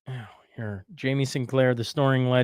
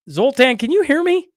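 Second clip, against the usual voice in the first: raised, high call to a lost connection; 10 semitones higher, 5 dB louder than usual. Real, not acted. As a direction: shout it up and out. Calling to frozen guest.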